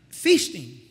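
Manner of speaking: feasting dropped low as the punchline. Acted. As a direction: land feasting low and final. Fasting is really feasting.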